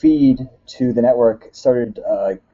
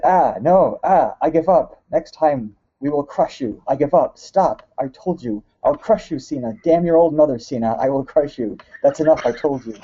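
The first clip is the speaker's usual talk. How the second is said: hammed-up fake Russian accent, pitched higher; 4 semitones higher than usual. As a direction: play a Russian wrestler grumbling in a mock Russian accent. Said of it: "fake Russian accent".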